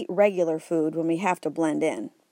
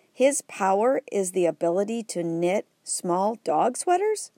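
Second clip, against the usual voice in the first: incredulous; 2 semitones higher than usual. Acted. Boy disbelieving dog sweater power.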